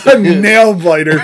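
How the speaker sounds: laughing through the words. Real, not acted. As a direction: say it while cracking up. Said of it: "I just laughed".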